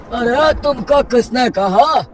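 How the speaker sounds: high, projected, incredulous uncle; exasperated village kaka voice; scolding village elder. Acted. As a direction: set a foolish neighbour straight.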